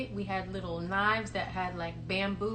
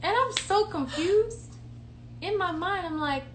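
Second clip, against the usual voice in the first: laughing; 7 semitones higher, 3 dB louder than usual. Real, not acted. Laughing at the memory.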